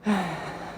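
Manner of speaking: quiet, falling exhale; soft sigh. Real, not acted. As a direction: let out a soft, releasing sigh. Exhales while leading relaxation.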